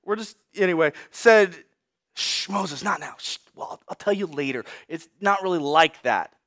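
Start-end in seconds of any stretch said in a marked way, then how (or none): 2.1-6.3 soft, lowered shushing; hushing mother. Acted. Mother hushes young Moses at the table, softly. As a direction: quietly put off a child's question. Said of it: "Moses' mother".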